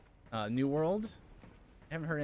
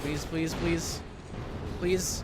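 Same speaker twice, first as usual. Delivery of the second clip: begging, rising higher and louder; pleading; 6 semitones higher, 4 dB louder, much slower than usual. Real, not acted. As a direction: plead with the game, building. Desperate attempt in game.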